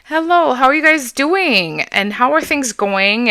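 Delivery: high, sugary customer-call voice; sweet phone voice. Shown as a demonstration. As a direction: sweeten it up like calling a patient. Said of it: "I do speak a little softer".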